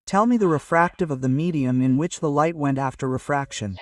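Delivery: one smooth unbroken line; smooth fluent reading. Shown as a demonstration. Teacher showing students the right way, smooth and fluent. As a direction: read it straight through without stopping. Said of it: "we should say it like this".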